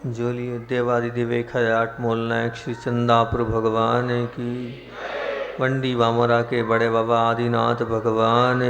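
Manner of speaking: steady reverent call of sacred names; devotional invocation. Acted. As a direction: call each holy name as a devout invocation. Calls out devotional jaikara. (श्रद्धा भरा जयकारा)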